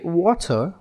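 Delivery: "water" in a global English accent. Shown as a demonstration. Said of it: "In a global accent".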